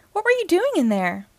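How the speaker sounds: incredulous high-pitched delivery; astonished question. A narrator's reading. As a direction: ask it in amazement. Woody questions the found friend.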